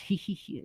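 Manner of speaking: a small pretend "hee hee"; imitated giggle. Shown as a demonstration. Texting friend laughing at someone's outfit, imitated giggle. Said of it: "a laughter".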